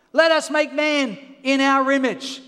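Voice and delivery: loud declaration of the verse; preached scripture. Real, not acted. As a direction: proclaim it to the room. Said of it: "loud preached scripture".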